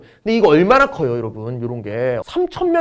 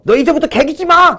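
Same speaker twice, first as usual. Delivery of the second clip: a warlord's shout, much higher and louder; mock threat shout; 10 semitones higher, 4 dB louder than usual. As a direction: bark a threat at the beaten tribe. Warring chief threatens a rival.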